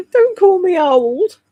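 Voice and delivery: hammed-up protest, drawn out; mock indignant. She answers a chat joke about age with slow mock outrage.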